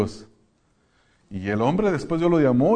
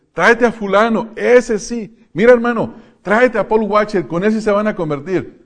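much higher and louder, pushy and excited; eager churchgoer; 8 semitones higher, 7 dB louder than usual. Retold or imitated. Churchgoer begging to bring a star preacher, excited and loud. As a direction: hype up the famous preacher. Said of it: "han escuchado que dicen".

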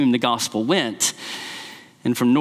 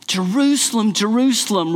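lament; 5 semitones higher than usual. Retold or imitated.

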